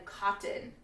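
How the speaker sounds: "cotton" ending on a bare N, no vowel before it; just the N. Shown as a demonstration. Teacher showing a spelling pattern, only N heard in "cotton". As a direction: say "cotton" with the last syllable swallowed into N. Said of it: "You just hear the N".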